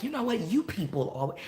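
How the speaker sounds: lightly mocked entitled Karen. Teacher imitating what a Karen says to people, mock Karen. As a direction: imitate a Karen starting high on a complaint. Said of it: "you've heard a Karen be like".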